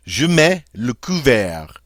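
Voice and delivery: mets said like "meh", no T; silent T in mets. Shown as a demonstration. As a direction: leave the T off mets, slow and careful. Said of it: "we don't say this T at all in mets".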